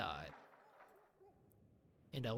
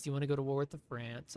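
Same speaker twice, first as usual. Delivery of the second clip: voicing England; faster than usual. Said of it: "who says".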